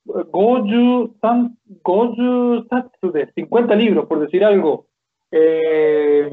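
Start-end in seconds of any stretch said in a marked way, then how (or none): 0.1-3.3 slow demo. Shown as a demonstration.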